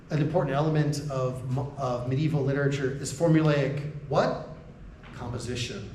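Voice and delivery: formal Ugandan lecture cadence with a falling last word; Ugandan formal speaking style. Shown as a demonstration. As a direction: pause on what, then drop the tone for Composition. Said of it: "pause before the last word and then in a downward tone".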